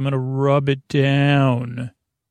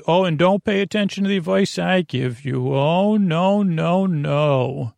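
lightly voiced nana, pitch lifted then settling; a hint of a guilt-tripping nana; passive-aggressive nana; 3 semitones higher than usual. Nana waving away her own advice, lightly voiced passive-aggressive protest. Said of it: "That's what the Nana in my mind says".

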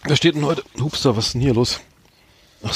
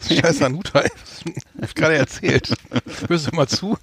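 chewing while talking; 3 semitones higher than usual. Real, not acted. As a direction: mouth full of wafer. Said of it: "Ich esse grad hier einen scheiß Hanuta".

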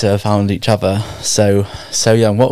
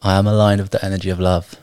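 affirmation response; 3 dB quieter than usual. Shown as a demonstration. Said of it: "repeat after me".

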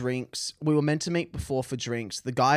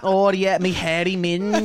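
much higher, slow and laughing pirate voice; 4 semitones higher, 5 dB louder, slower than usual. Acted. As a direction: ham up a crude pirate, grinning. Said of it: "sounds like she's been part of Davy Jones' lockup".

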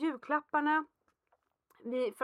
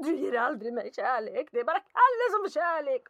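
mock jealous kid, rising louder; sulky child; 5 dB louder than usual. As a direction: whine it like a hurt child. Jealous son's complaint imitated. (svartsjuk barnröst, allt högre)

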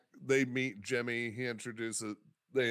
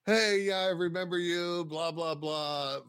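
higher, louder opening, easing down through the blahs; reading out an email; 5 semitones higher, 3 dB louder than usual. Retold or imitated. Comedian's emailed reply to a beginner, breezily paraphrased. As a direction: skim aloud through a reply's pleasantries. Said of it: "I get an email back from him".

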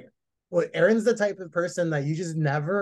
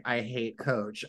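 mock diva complaint; 5 semitones lower, 5 dB quieter, slower than usual. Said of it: "excuse her for even expressing".

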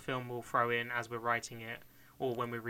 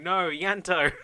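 loud, high movie-style cry of loss; acted anguished shout; 7 semitones higher, 10 dB louder, much slower than usual. Actor shouting over his dead best friend, hammed-up shout. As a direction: shout it out like a big dramatic death scene. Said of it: "we should have him shouting".

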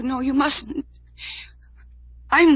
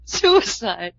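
choked-up sobbing; 5 dB louder, slower than usual. Acted. Distraught woman reveals friend's suicide.

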